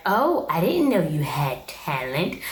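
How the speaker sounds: slow, condescending imitation of a mother; mock a backhanded compliment, drawn out; feigned surprise, talking down. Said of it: "comes off condescending".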